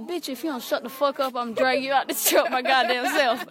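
slowing into a mock threat, laughing at the end; half-laughing fake menace; mock threatening inner voice. Her head threatening to drag her out, mock angry and laughing. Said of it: "And my head was like".

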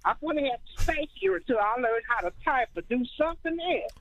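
distant, faint phone voice; talking away from the mouthpiece; phone held away. Real, not acted. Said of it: "Keisha, can you speak into the phone a little better? 'Cause I can't really hear you".

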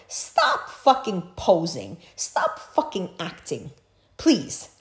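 slow stern father lecture; dad mode. Acted. Scolding the girl like her strict father, slow. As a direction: lay down the law like a strict dad. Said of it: "get into dad mode".

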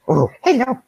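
high cooing greeting. Real, not acted. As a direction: coo at the fish. Baby talk to fish.

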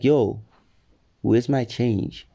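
slow, even ask; easygoing, unbothered request; calm correction of the angry version. Retold or imitated. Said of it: "calmly, because I'm a calm person".

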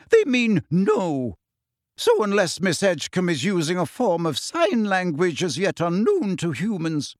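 dry cutting putdown; cold. Acted. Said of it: "said McGonagall coldly".

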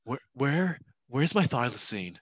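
a lightly voiced Cage, wailing the question; hint of a frantic Nicolas Cage; Nicolas Cage impression. Podcaster imagines Cage in the remake, mild mock Cage wail. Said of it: "Nicolas Cage in it and be like".

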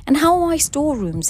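imperious husband questioning his wife; rumbled demand. A narrator's reading. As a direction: demand an account, pressing loudly. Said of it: "he rumbled".

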